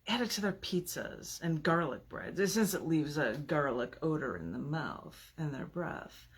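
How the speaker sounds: calm, measured reading of a sinister poem. Acted. Reads villain persona poem.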